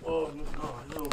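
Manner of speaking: loud startled "oh no, hell no"; scared outburst. Real, not acted. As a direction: blurt it out, spooked and loud. Spooked by flashlight turning on.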